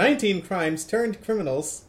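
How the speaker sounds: lightly voiced radio countdown host; a hint of chart-show announcer; amateur go at a radio DJ's intro; Casey Kasem. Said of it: "Channel Casey Kasem".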